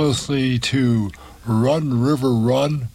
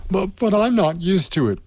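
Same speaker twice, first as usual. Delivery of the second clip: pleading; 8 semitones higher than usual. A narrator's reading. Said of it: "pleaded Alice".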